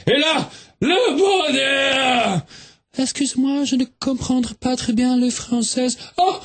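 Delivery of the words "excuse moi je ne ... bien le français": put-on lightly Swedish-accented French, a bit higher; a tourist girl speaking French with a Swedish accent. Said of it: "mais quel joli accent!".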